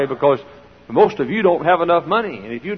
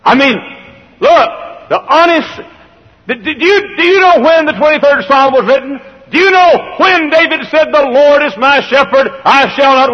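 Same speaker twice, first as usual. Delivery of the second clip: fervent preaching; 9 semitones higher, 6 dB louder than usual. Acted. Preaching at full force.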